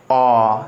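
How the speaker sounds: आ held long and open, mouth wide; drawn-out aa vowel. Shown as a demonstration. Teacher demonstrating the open vowel to students, drawn out. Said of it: "जैसे मैं बोलता हूँ क्या?".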